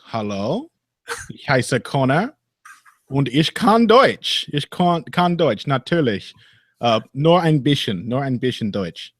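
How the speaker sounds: English speaker's clumsy German, slow on Deutsch; terrible German accent. Acted. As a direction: show off shaky schoolboy German. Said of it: "your terrible German accent".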